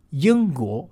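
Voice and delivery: ユンゴ said as Mandarin Yīngguó, with back ng; Chinese pronunciation. Shown as a demonstration. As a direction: demonstrate ユンゴ with Chinese tones. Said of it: "中国語でイギリスはユンゴです".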